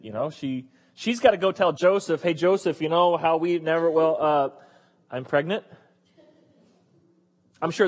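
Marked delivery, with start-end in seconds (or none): 2.2-5.6 hesitant, lowered voice breaking news; awkward confession. Acted. Mary telling Joseph she's pregnant, awkward and hesitant.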